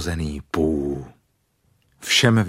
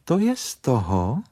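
curt rebuke; 5 semitones higher than usual. Acted. Rabbit answers the grumbling bear, curt rebuke. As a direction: throw the blame back curtly. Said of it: "řekl králíček příkře".

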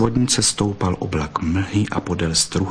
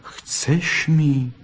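softer, slow, tender words; 4 dB quieter, much slower than usual. Acted. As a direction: speak to her softly and tenderly. Tender fox after kissing.

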